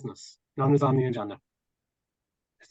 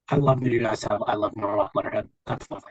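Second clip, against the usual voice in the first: underwater; 4 semitones lower than usual. Real, not acted. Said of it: "You sound like you're underwater".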